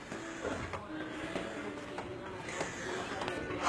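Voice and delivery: long, breathless sigh after the climb; winded exhale. Real, not acted. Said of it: "little out of breath".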